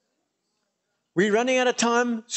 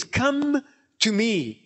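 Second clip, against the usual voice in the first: Jesus's invitation; 3 semitones higher, much slower than usual. Acted. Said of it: "Jesus says".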